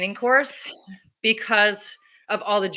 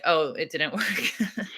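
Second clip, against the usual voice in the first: laughing whisper; 3 semitones lower, 4 dB quieter, slower than usual. Retold or imitated. People realizing it failed, mocking.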